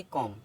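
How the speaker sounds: कॉम ending on M, no B sound; silent B. Shown as a demonstration. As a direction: close कॉम on the lips with M, leaving B unsaid. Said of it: "एम के बाद आया बी silent होता है".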